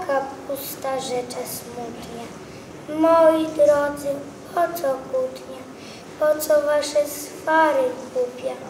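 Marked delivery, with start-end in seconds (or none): 2.9-8.6 sad cabbage. Acted. Cabbage sadly asking the vegetables to stop arguing. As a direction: sigh it out like a weary cabbage.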